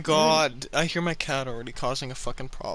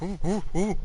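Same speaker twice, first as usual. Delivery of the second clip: fast taunting cat voice; a hint of a cocky cat taunting; voicing the cat; 2 semitones higher, faster than usual. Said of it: "He was like".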